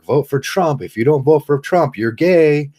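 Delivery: hammed-up canvasser badgering you; mock political pusher. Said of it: "the political people run up".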